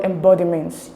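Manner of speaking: emBODiment, weight on "bod"; stress on second syllable. Shown as a demonstration. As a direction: make "bod" stand out in embodiment. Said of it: "stress is in the second syllable".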